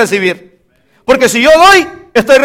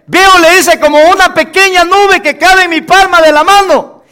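high, raised, breaking-news delivery; excited report; 7 semitones higher, 3 dB louder than usual. Acted. Servant tells Elías he finally sees something, excited report. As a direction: announce the sighting with rising excitement.

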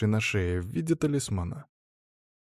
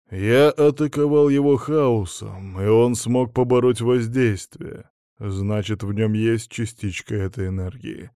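disembodied voice. Acted. Emissary of chaos gives orders.

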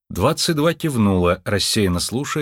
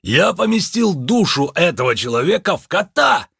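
высокий взволнованный возглас; похвастаться чудом; восторженный возглас; 7 semitones higher, 3 dB louder than usual. A narrator's reading. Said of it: "воскликнул Лунветр". (Лунветр хвастается перед Мардж, восторженно)

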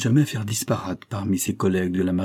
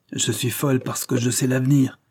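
cri de la vieille; 4 semitones higher than usual. Acted. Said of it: "criait la vieille plus fort".

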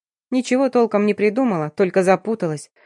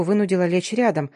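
plain reading voice

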